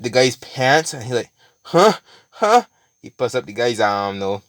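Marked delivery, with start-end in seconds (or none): 1.6-2.6 sharp, much higher, confused yelps; startled huh. Retold or imitated. The tied-up man startled by the nutcracker hand, surprised yelps. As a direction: caught off guard, twice. Guy startled as pants unzipped.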